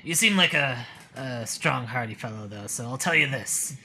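gruff gravelly townsman. Acted. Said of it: "those gravelly voices are hard on my vocal cords".

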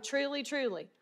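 soft, falling "Truly, truly" said softly and held back; hushed solemn quote; quiet truly. Shown as a demonstration. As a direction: ease into "Truly, truly" gently, as a hush. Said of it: "This is seriously important".

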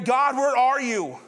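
slow imploring question; pleading cry. Acted. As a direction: call out to a God who seems absent. Voices a believer's desperate prayer.

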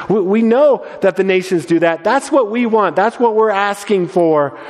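high, keen and knowing; eager disciples. Retold or imitated. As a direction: brag like ambitious followers. Disciples voiced, eager for power.

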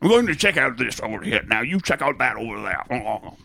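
playful put-on British voice; mock British accent. Player having fun as a bobby, mock British accent. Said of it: "affect a British or Scottish accent".

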